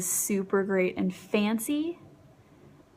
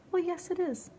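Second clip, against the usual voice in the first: delighted surprise; 9 semitones higher than usual. Real, not acted. Reading the shade's name, delighted.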